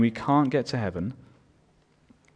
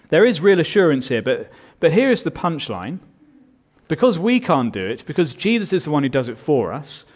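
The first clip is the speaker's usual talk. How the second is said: impassioned preaching; 4 semitones higher, 5 dB louder than usual. Acted. Preaching climax, loud.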